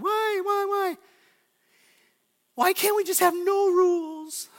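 high, drawn-out mock whine; whining kid. Kids begging parents to drop the rules, whining. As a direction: imitate a child whining loudly. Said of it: "Like the whining".

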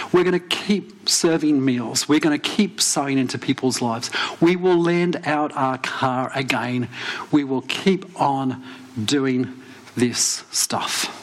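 slow, deliberate declaration, phrase by phrase; resolute vow. Retold or imitated. Couple's vow, retold.

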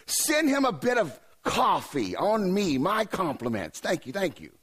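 slow mock Scottish accent, starting high; weird accent. Bent-over man sending Jesus coffee, hammed-up Scottish accent. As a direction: ham up a drawn-out Scots accent. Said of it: "had a weird accent".

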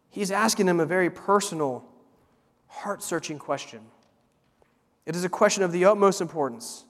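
ordinary delivery

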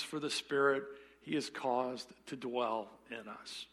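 measured, earnest Bible reading; scripture reading. Acted. Pastor reading James chapter four to the congregation. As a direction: read the verses with weight.

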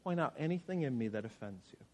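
"Point out anything in me that offends you" almost under the breath, prayerful; quiet prayer. Shown as a demonstration. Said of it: "say that to God and then be quiet".

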